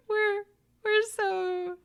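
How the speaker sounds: giggling at herself; laughing. Real, not acted. Host laughing at how good they are.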